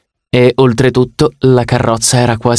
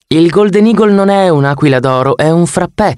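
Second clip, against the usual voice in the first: Annabeth explaining; 7 semitones higher than usual. Acted.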